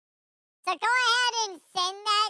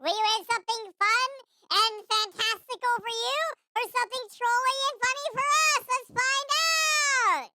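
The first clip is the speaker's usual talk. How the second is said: game show announcer; 2 semitones higher than usual. Acted. Host announces the prize wheel spin.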